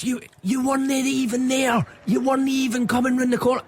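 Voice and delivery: mocking the man in the road; mock angry pedestrian. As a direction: squeak it out like a wound-up stranger. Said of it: "He says".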